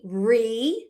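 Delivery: re-cord split as REE... KORD; long ee in re, long pause before cord; open first syllable. Shown as a demonstration. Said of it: "that would be an open syllable".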